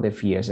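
"first" said wrongly as "feerst"; mispronounced first. Shown as a demonstration. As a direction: say "first" with a mistaken ee vowel. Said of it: "but it's not".

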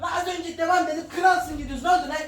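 angry referee snapping back; annoyed shout. Acted. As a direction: snap back at him.

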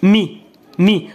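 مي as one syllable, "mee", drawn out slowly; slow, separate demonstration of مي; M plus I. Shown as a demonstration. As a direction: blend m into a long i in مي. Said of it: "ولا درت إي".

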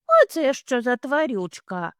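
a little one asking what that is; curious bunny. Acted.

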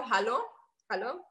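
hallo said the standard way, with a rising end; standard German hallo. Shown as a demonstration. Showing the chat standard German hallo, said carefully. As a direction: give hallo the plain standard German sound. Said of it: "just hello".

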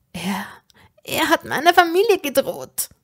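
urgent self-directed cry; calling out to herself. A narrator's reading. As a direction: call it out to convince yourself. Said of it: "rief ich mir selbst zu".

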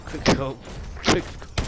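loud cocky brag; taunting. Pretend. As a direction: shout it to rub it in. Taunting the kill.

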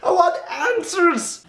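high laughing what are you doing; high laughing exasperation; laughing disbelief. Real, not acted.

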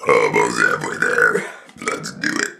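words pushed out in one long deep burp. Real, not acted. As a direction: burp every word slowly. Talking while burping, burp challenge.

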